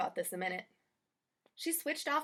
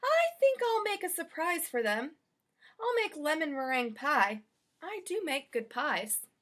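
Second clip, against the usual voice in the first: higher, proud cheerful maid; Amelia Bedelia; 4 semitones higher than usual. Acted. Maid planning a surprise pie, proud. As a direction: plan a treat with pride.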